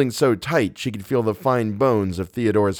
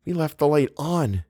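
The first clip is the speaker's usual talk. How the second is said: higher, tense reasoning with herself; anxious self-talk; 6 semitones higher than usual. A narrator's reading. Eleanor telling herself the light was left on, anxious. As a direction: try to reason through the fear. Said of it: "she told herself".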